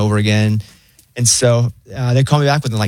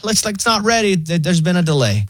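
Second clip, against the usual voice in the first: chill robot operator; 7 semitones higher than usual. Acted. Pharmacy AI announces a delay, weirdly chill. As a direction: break bad news like a laid-back assistant. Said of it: "it's so weirdly chill".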